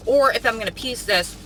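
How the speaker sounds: talking while chewing mints; words round a mint. Real, not acted. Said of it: "sorry, I'm chewing on mints".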